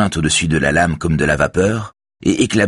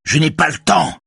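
high, impatient cry; shouting; 10 semitones higher than usual. A narrator's reading. Raphaël cuts the helmsman off, high shout. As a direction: cry out impatiently, much higher. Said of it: "crie Raphaël".

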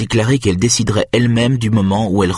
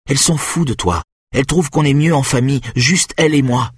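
Benjamin pushes his case, pitched up and urgent; frightened boy trying to convince Marek; boy pleading, voiced higher; 6 semitones higher than usual. Benjamin urges Marek, pitched high.

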